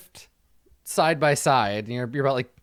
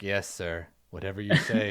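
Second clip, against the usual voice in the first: dutiful scribe; 6 semitones lower than usual. Acted. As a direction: humor the knight under your breath. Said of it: "Amina's just like".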